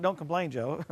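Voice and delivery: lightly sweet, mild reproof; sweet gentle chiding. Acted. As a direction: voice the Lord gently calming a complainer. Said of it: "the Lord's so sweet".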